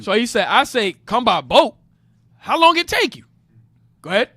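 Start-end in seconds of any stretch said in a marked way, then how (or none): 1.0-3.2 "How long it take you?" rising high on "long" and then falling, like a real question; teacher shows the student how to ask "How long it take you?" with a lift on "long". Shown as a demonstration. Teacher modeling the grandson's question for the reader, pitch up on "long". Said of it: "You gotta read it as a question".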